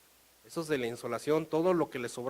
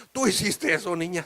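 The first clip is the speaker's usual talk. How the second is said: mild mock surprise; 2 semitones higher, 6 dB louder than usual. Mother surprised, louder.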